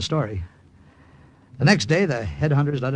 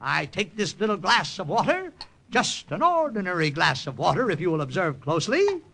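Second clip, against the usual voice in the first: stage magician patter; 2 semitones higher than usual. Acted. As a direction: play the carnival magician working the crowd. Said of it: "And I went into my act".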